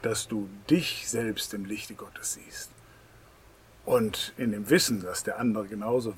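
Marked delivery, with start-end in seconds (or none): 0.0-2.7 soft slow whisper. Real, not acted. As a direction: hush it like a secret. Soft aside in sermon.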